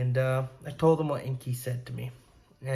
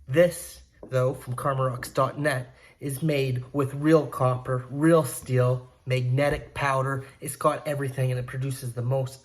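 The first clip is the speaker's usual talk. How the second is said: upbeat sales pitch, a bit louder; ad read; 4 dB louder than usual. Acted. Vlogger pitching pyramids to his viewers, upbeat ad read. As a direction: push the product like a hype ad.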